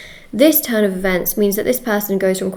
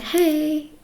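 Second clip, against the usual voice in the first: bright, higher cheerful hey; lively greeting; 7 semitones higher, 4 dB quieter than usual. Retold or imitated. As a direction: greet someone with real energy. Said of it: "They won't be like".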